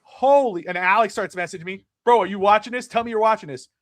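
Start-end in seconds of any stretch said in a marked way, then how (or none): 0.0-0.7 retold amazement. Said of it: "And, and I'm like". 2.0-3.7 mock excited yelling. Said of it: "he starts yelling at me".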